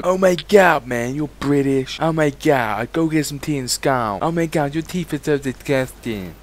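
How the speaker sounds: mock American gamer accent; exaggerated, poorly faked American voice; bad American accent. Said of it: "My American accent is pretty bad".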